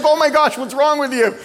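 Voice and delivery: high, loud disbelieving cry; wife's incredulous outcry at husband. Retold or imitated. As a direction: exclaim in mock disbelief at him. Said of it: "and she's like".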